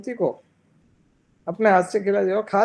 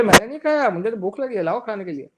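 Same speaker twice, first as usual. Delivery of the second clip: high, loud protest fading to a plea; a child swearing he didn't eat it; protesting child who is just hungry; indignant child protest; 5 semitones higher, 3 dB louder than usual. Acted.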